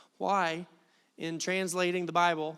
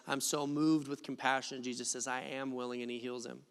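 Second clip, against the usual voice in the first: flat familiar reading; 7 semitones lower, 8 dB quieter than usual. Shown as a demonstration. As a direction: lower and much softer, offhand. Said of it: "This is how I've always heard this verse".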